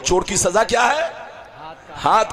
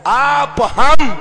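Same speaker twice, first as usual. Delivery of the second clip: normal talking voice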